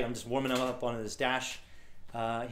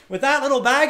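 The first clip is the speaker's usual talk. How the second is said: very high, loud mock question; incredulous driver; 12 semitones higher, 10 dB louder than usual. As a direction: pitch it way up in disbelief. Driver scoffs at the small bag.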